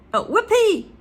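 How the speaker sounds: high, loud whooping shout; an old woman yelling with glee; Grandma shouting. Acted. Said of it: "she shouted".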